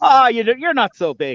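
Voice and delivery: put-on halfling voice. A player voicing a character in a fantasy game, using a halfling accent. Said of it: "I want to hear the halfling accent".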